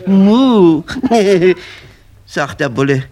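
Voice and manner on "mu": loud comic cow moo; imitated moo. Cows cheering Hannibal the bull, imitated moo.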